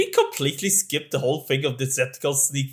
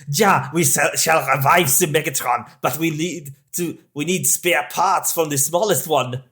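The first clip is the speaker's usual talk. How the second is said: hint of a German villain's accent; mock German accent. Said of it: "in his most German accent".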